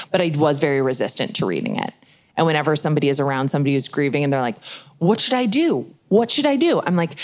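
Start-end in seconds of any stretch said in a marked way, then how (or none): 5.0-6.8 higher-pitched mock fretting; helpless fretting. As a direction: imitate a well-meaning friend at a loss. Helpless friends of the grieving, imitated.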